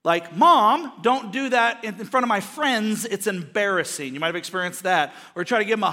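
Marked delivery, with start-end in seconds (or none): 0.4-4.2 loud protest on Mom, then easing off; mild mock teenage whine; embarrassed teenager. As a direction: lightly imitate a mortified teen.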